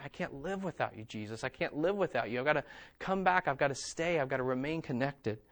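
soft, hushed plea; quiet pleading. Pretend. A disconnected believer begging Jesus, soft and earnest. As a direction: beg quietly to stay close.

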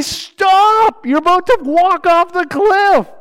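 loud, high panicked yell; urgent scream. Pretend. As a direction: scream to stop a friend stepping off a cliff. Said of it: "You say".

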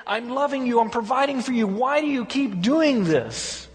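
pleading husband. Retold or imitated. Husband pleading with his unfaithful wife. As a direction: beg the wife to come home. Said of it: "the husband keeps coming and saying".

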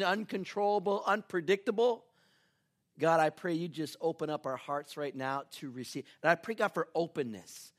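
measured congregational prayer. Real, not acted. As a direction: pastor praying aloud. Leads an opening prayer.

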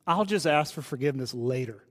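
a sly roommate laughing it off; the roommate's shrug, laughed and soft; laughing quote. Retold or imitated. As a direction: chuckle through it, dropped low and soft.

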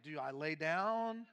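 slow, puzzled question; confused question. Retold or imitated. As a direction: ask slowly, unsure. Confused in psychiatrist office.

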